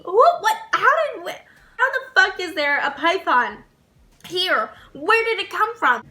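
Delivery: sputtering disbelief, starting high; retold bewilderment. She sees a python at work, retold stammering shock.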